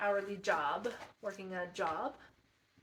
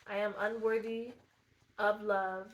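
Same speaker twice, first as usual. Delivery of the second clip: louder, said out with force; a determined, louder declaration; firm declaration; 8 dB louder than usual. Real, not acted. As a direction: state it boldly, pushing through. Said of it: "we're gonna hit hard".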